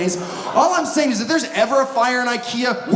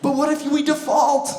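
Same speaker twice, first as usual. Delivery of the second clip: mock worry; 5 semitones higher than usual. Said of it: "That's always the big worry".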